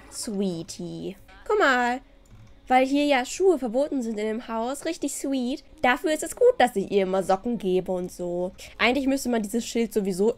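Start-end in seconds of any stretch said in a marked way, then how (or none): none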